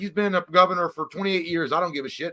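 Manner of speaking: high, loud dumb voter voice; mock a careless voter shrugging it off; clueless voter caught not caring.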